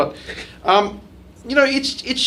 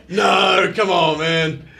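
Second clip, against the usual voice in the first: 1 disbelieving local; 4 semitones higher, much slower than usual. Retold or imitated. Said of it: "It's just like".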